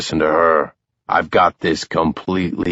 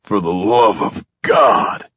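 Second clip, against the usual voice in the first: exasperated; 2 semitones higher than usual. A narrator's reading. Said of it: "Max says".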